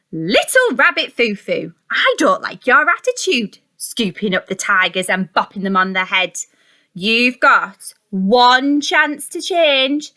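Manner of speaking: storybook fairy scolding a rabbit; stern fairy. Acted. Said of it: "Down came the good fairy and said".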